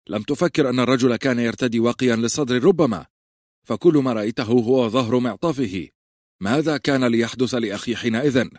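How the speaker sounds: loud angry rebuke. Acted. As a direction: dress him down out loud. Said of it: "قال روب بصوت عال".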